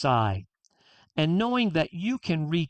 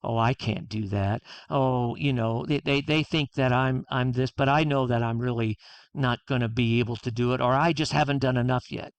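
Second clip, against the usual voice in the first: inner critic voice; 5 semitones lower than usual. Retold or imitated. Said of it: "inside we're going".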